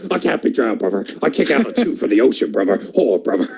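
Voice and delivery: Hulk Hogan impression.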